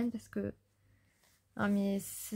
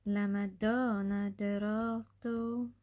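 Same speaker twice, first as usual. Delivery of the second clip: slow musing; much slower than usual. Real, not acted. Pondering the poem's meaning.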